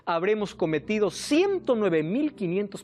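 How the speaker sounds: escalating pulpit emphasis; building sermon climax. Acted. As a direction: hammer the numbers home to the crowd. Preaching at full force.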